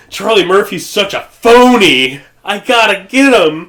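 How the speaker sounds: high, put-on mocking voice; mocking impression. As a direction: laugh through a mocking impression. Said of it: "you were like".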